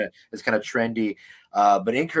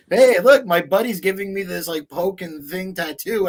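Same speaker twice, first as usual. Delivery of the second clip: higher and louder, a mocking bro showing off; mock excited poster; 8 semitones higher, 7 dB louder than usual. Mocking a Facebook poster's excited brag about a new tattoo. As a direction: ham up an eager guy bragging online. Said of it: "people pictures on Facebook of like".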